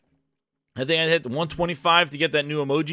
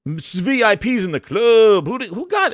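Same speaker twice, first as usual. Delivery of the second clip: hype shout; 4 semitones higher, 4 dB louder than usual. Real, not acted. Hype over gifted memberships.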